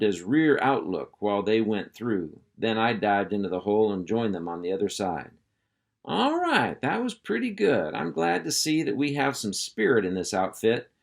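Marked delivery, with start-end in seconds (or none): 6.0-10.9 high, hearty praise; proud drill sergeant. Acted. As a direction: praise the troops with gusto. Hank praising the pups.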